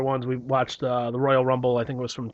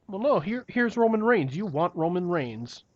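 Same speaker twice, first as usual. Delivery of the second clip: mock corporate push; 5 semitones higher, slower than usual. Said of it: "W W E is just like".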